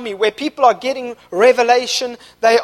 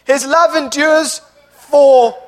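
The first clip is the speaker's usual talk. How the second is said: rising shout; 3 semitones higher, 4 dB louder, slower than usual. Real, not acted. Preacher building congregational refrain.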